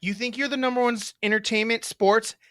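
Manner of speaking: light taunting hype promo; mock challenge, barely changed voice; imitating Tara. Brother lightly voicing his sister's taunt to rival siblings. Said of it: "I'll try to do it as you".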